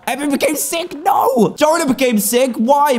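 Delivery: rising alarmed wail; dismayed alarm. Real, not acted. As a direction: panic as the penguins fall ill. Penguins falling sick.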